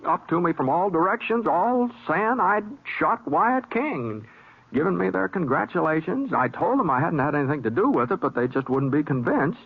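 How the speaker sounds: relaxed first-person western narration; story narration. A narrator's reading. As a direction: tell it to the listener, folksy. Narrator retells over music.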